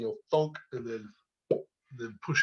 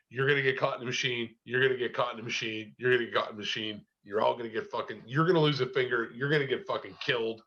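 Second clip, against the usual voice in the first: repeated warning; faster than usual. Retold or imitated.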